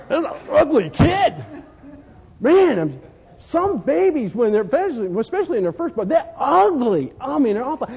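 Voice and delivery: half-laughing jab about ugly babies; laughing mock disgust. Preacher joking to the congregation about ugly newborns, laughing. Mocking babies' looks to father.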